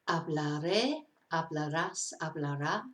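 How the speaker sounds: hablaré, hablarás, hablará, each stressed on its final syllable; stress on last syllable. Shown as a demonstration. Teacher showing a tense's endings, last syllables stressed. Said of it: "you're stressing on the last syllable".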